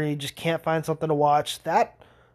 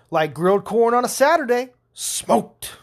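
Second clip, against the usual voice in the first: higher, louder cocky one-liner; TV trash-talker; 7 semitones higher, 5 dB louder than usual. Retold or imitated. Player taunts opponent after scoring, mock cocky. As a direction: taunt a rival in a hammed-up boast. Imitating TV character's trash talk.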